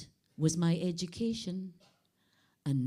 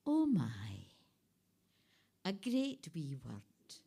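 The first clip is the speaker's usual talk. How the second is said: whisper; 3 semitones lower, 3 dB quieter than usual. Acted. Poem reading, whispered aside.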